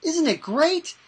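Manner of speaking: building excitement; mild hype. Retold or imitated. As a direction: rise into an upbeat sell. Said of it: "I go".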